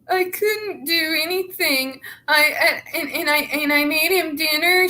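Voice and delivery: high, fast, helpless housewife whimper; hammed-up little-wife voice, rushed; mock 1950s housewife. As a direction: mimic a simpering fifties housewife. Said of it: "She's trying to make herself sound like she's a nineteen fifties fucking housewife".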